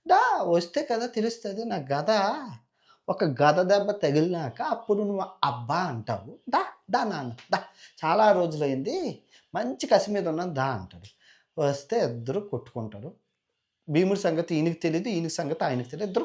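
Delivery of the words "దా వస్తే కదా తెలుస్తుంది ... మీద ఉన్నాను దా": taunting challenge. Acted. Bhima taunts the demon.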